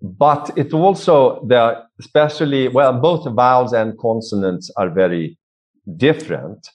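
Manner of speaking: a slightly broader Swedish accent. Shown as a demonstration. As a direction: let a Swedish lilt shape melody, vowels and consonants. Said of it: "speak with a more of a Swedish accent".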